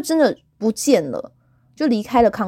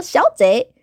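put-on Taiwanese Mandarin accent; 2 semitones higher, 4 dB louder than usual. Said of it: "她真的是台湾国语".

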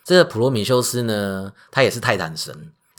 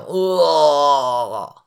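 pained cry; 4 semitones higher than usual. Acted. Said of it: "喷血倒地惨叫".

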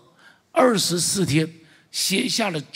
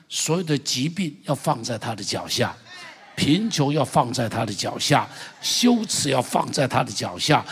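fervent preaching. Acted. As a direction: pound out every line like a chant. Litany of burdens under his feet.

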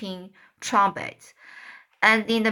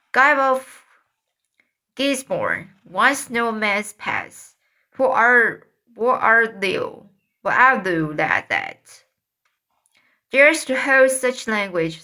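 stagey fake archaic declaiming; 4 dB louder than usual. The speaker plays Guy of Gisborne.

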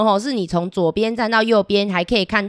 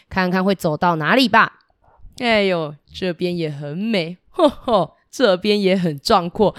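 lightly voiced boastful river god; storyteller playing a proud god for kids; river god Hebo.

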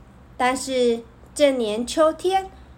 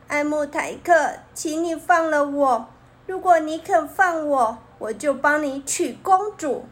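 pleading; 2 semitones higher than usual. Acted. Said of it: "狐狸哀求着说".

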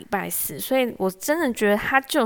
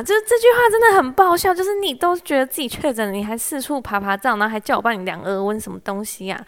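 音调猛地拔高又响又快, 忍不住笑着吐槽; 一口气连珠炮地抱怨; 激动吐槽; 3 semitones higher, 6 dB louder, faster than usual. Real, not acted. 吐槽长官坚持自己确诊. (讲到长官荒唐的话，又高又快地激动吐槽)

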